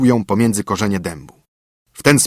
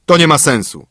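mildly cross, raised voice; angry grumble; 5 semitones higher, 5 dB louder than usual. A narrator's reading. Father dismissing his son's promise, mildly angry and louder. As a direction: dismiss it with a touch of anger. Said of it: "pomruknął ojciec z gniewem".

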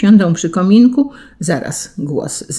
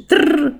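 high rolled trrr, like a creaky clock; funny clock screech; 10 semitones higher than usual. A narrator's reading. Clock creaking as Kaziutek winds it, funny high screech. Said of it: "Zegar tak śmiesznie skrzeczy".

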